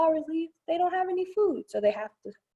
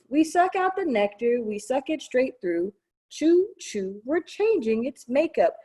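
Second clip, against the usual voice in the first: rhythmic read-aloud; slower than usual. Acted. Librarian chanting the chewing verse to kids, playful. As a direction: bounce through the rhyme like a chant.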